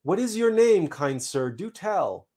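puzzled seed's polite plea; mild begging. Acted. Confused seed begs a stranger's name, mildly pleading. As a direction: ask it as a confused little seed. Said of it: "I begged, confused as hell".

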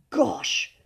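put-on a boy engrossed in his book; enthralled. A narrator's reading. Boy enthralled by a ghost story, enthralled. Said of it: "murmured the enthralled William".

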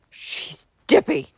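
slow, loud angry outburst; angry snort. A narrator's reading. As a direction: snort it out in indignation. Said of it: "he snorted angrily".

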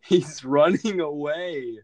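taunting. Real, not acted. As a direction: jeer at him as he flees. Mocking a fleeing enemy.

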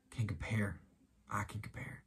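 put-on low, softened voice, as if consoling a child; quietly comforting, in Jesus's role; gentle consoling. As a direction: drop down low and soft to reassure. Preacher voices Jesus consoling someone.

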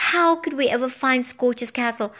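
plain reading voice

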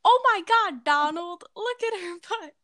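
high squeaky cartoon voice; Mickey Mouse voice. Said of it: "You should have said".

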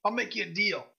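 lightly voiced gruff woman shopkeeper; a hint of gruff merchant. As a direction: greet a customer in a mildly gruff voice. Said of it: "she's got this gruff voice".

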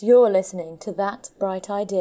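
hoarse, husky radio intro. Real, not acted. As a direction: read the intro with a worn-out husky voice. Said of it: "Sounds a bit weird with my husky voice".

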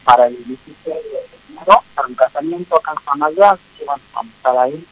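choppy phone line breaking up; words cutting in and out; buffering stutter. Real, not acted. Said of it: "Se escucha entrecortado".

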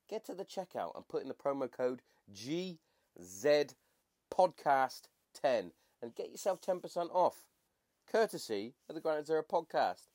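put-on posh accent for an ad read. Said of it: "clearly, that was your posh voice".

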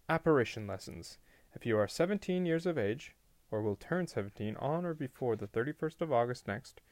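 formal announcement with lifted, lilting pitch; official notice. A narrator's reading. Reads out a posted notice.

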